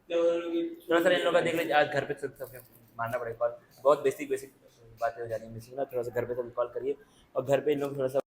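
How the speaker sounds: dropped low and soft, an aside to a colleague; hushed aside. Real, not acted. Teacher quietly asking staff to call parents, hushed. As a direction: murmur it off to the side so the class can't hear.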